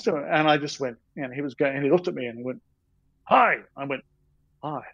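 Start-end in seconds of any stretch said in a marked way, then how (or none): 3.2-3.6 high, loud "Hi"; imitated stranger's greeting. Older gentleman greets the staring passer-by, high punchy hello. 4.6-4.8 small, subdued "Hi"; imitated meek reply. Sleepless artist replies to the older stranger, subdued hello.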